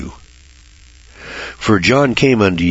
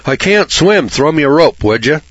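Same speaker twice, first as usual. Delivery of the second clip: high, loud mock cry for help; pretend yell for help; 7 semitones higher, 3 dB louder than usual. Preacher pretends to drown and yells for a rope. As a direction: call out like a man drowning in the river. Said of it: "and I'm yelling".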